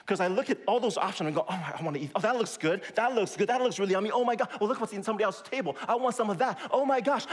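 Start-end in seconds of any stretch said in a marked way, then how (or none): 1.5-7.3 mock freaking out. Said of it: "I freak out".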